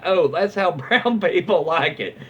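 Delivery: laughing through a smug retort; a gleeful, half-laughing comeback; gleeful deadpan. Retold or imitated. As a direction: deliver it with barely hidden glee. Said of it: "With barely concealed glee".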